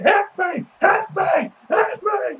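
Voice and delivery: high-pitched imitation of begging to be hit; begging, goading. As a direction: coax them with a high, insistent plea. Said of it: "begging, like, you know, trying coaxing".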